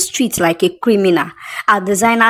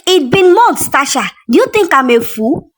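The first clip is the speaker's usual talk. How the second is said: angry reproach; 5 semitones higher than usual. Acted. Angry woman confronting Tasha.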